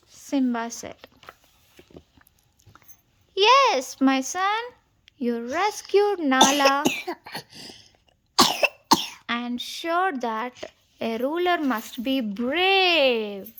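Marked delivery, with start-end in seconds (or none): 3.3-13.5 proud father. Acted. Mufasa praises son.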